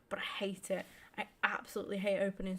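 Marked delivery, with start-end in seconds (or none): 0.1-0.8 whisper. Real, not acted. Whispered aside about packs.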